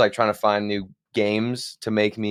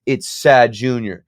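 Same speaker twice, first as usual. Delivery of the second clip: mildly excited starstruck quote; freaking out; 3 semitones higher, 5 dB louder than usual. Retold or imitated. Player retells teammates spotting a famous streamer, mildly freaking out. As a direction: imitate awed teammates, a touch worked up. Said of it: "my teammates were freaking out".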